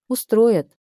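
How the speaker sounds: pleased smiling agreement. Acted. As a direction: answer with a smile in the voice. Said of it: "улыбнулась я".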